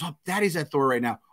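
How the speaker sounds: light impression of an excited kid; excited young daughter. Little girl begging to see the movie, excited. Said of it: "she goes".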